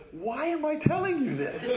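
high, laughing self-catch; retold woman laughing mid-confession; laughing at herself. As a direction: laugh it off, embarrassed. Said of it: "she stops and she goes".

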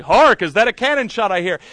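loud, ringing theatrical delivery of the line; rehearsing a stage line. Retold or imitated. Actor rehearsing in the shower, loudly proclaiming. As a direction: belt it like a musketeer captain.

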